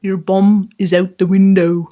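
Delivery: a bad attempt at a Scottish accent; awful Scottish attempt. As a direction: mimic the Scottish lilt and miss it. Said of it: "Oh, it's awful".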